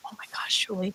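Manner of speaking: soft whispered wonder; awed whisper. Retold or imitated. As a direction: whisper it, overwhelmed by joy. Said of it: "he just kept going".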